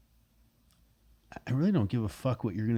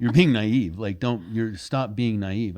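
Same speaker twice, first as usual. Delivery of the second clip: loud and blunt, slowing on stop being naive; blunt, loud callout; 7 dB louder, slower than usual. Retold or imitated. Retelling the therapist bluntly calling out naivety, loud. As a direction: tell her straight, loudly, she's naive. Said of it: "You're really blunt".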